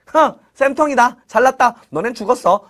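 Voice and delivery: playful sneering taunt; lightly acted spiteful jeer; mock gloating. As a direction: gloat as if getting payback. Imagined gloating, then denied.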